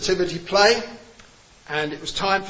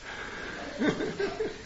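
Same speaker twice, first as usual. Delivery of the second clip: high breathy laugh; 14 semitones higher, 10 dB quieter than usual. Real, not acted. Laughing at own joke.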